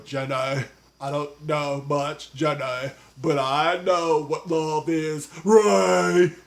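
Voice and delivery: Forrest Gump. Retold or imitated. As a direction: do a slow, earnest movie-hero drawl. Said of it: "that sounded like Forrest Gump".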